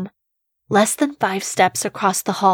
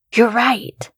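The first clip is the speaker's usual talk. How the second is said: put-on higher, eager man-child voice; a grown man sounding like a kid; lightly voiced eager man-child; 4 semitones higher than usual. A narrator's reading.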